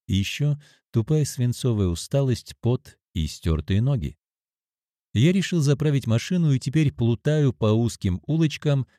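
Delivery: ordinary delivery, nothing marked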